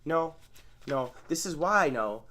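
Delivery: calmly repeating the same refusal; broken record. Shown as a demonstration. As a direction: repeat it over and over like a stuck record. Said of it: "that's the broken record technique".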